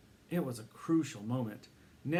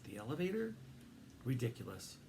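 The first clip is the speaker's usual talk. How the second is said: incredulous; 5 dB quieter than usual. A narrator's reading. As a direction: ask elevator in disbelief. First take, questioned.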